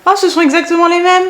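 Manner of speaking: high, bright exclamation of discovery; sudden realisation, voice jumping up; oh, they're exactly the same; surprised. Real, not acted. Surprised discovering matching handles.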